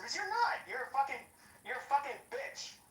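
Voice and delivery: heated outburst at the rival; angry outburst. Real, not acted. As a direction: spit the insult out. Insulting rival in heated argument.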